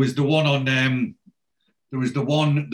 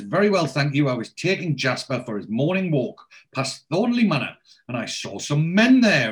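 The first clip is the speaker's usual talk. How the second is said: lightly voiced posh lady; 3 semitones higher than usual. Posh lady reporting to the village cop, lightly voiced. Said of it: "posh lady with the dog".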